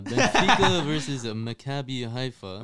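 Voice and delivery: slow, laughing weird voice. Pretend. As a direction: drag it out in a silly put-on voice. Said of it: "on to weird voices".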